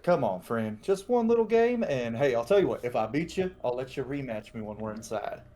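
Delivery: folksy cajoling, jumping up in pitch midway; lightly voiced swaggering challenger; coaxing strongman. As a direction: wheedle a friend into one quick match.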